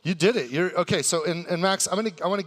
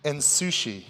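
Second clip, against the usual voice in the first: announcing; 3 semitones higher, 4 dB louder, slower than usual. Acted. Host repeats the card out loud.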